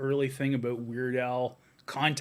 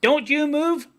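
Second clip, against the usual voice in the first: high, loud barbarian threat; 10 semitones higher, 10 dB louder than usual. Retold or imitated. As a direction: yell it like a hammy brute. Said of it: "all the Canadian cops".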